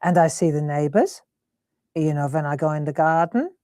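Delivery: lightly imitated German mum; German accent. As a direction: retell it in mum's German accent. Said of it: "and she's German, isn't she".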